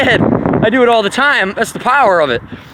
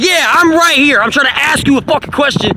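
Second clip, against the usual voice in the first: confronting boss; 5 semitones higher than usual. Retold or imitated. Speaker confronting the Capricorn boss, mock angry. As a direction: demand her attention. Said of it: "I was like".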